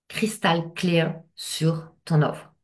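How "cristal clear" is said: slow French-accented English; English words, drawn out with a French accent. Real, not acted. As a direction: say it slowly in self-amused franglais English accent. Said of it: "J'adore mon accent anglais".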